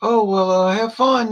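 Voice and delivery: high, airy brush-off of "Southern"; mock dismissive friends. Imitating friends who refuse to come to the games, airily dismissive. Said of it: "They're like".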